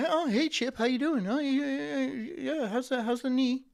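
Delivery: lightly voiced office suck-up; fake-friendly coworker. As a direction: play the eager team player. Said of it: "Do you think I'd be like".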